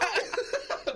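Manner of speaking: squeaky cracking-voice yelp; mock voice crack. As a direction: imitate a boy's voice breaking mid-laugh. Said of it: "My boy voice still go like this".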